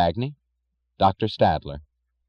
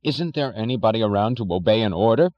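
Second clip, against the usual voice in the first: cried out; 2 semitones higher than usual. Acted. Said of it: "cried Mister Thompson".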